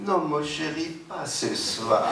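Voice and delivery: giggling coy wife excusing herself, pitch up high. Acted. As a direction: playfully put off husband with a laugh. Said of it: "et Sarah dit".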